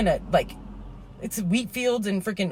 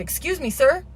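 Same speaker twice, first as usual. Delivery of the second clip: retold yell; 9 semitones higher than usual. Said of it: "yelling was muffled by the rain".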